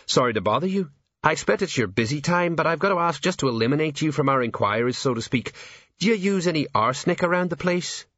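lifted, breezy polite enquiry; bright, chirpy patter. A narrator's reading. A police sergeant apologises and asks about arsenic, brightly. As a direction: keep the routine question bright and high. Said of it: "said Sergeant Colon brightly".

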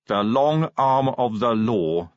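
slow, drawn-out headline reading; measured headline, word by word; reading aloud. A narrator's reading. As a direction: read it out deliberately from the paper. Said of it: "Vimes read aloud".

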